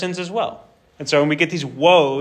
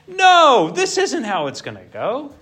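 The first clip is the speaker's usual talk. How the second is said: sharp high cry of no; outraged protesting cry; prophet's protest; 8 semitones higher, 4 dB louder, slower than usual. Acted. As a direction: burst out louder and much higher on no.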